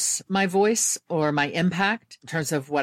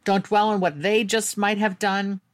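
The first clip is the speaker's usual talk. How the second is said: self-talk; 5 semitones higher than usual. Retold or imitated. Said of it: "that was me saying".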